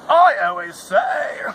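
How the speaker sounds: slow, loud mock proclamation; hammed-up shout. Grandpa proudly tagging his own motto, slow and loud. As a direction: belt out the catchphrase slowly.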